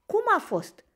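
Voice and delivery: high, eager question; hopeful. A narrator's reading. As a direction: ask brightly, voice leaping up. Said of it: "întrebă el plin de speranță". (plin de speranță)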